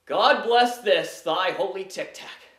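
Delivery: slow, solemn mock prayer; mock blessing. Actor blessing a Tic Tac, mock-solemn. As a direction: intone it like a blessing, drawn out.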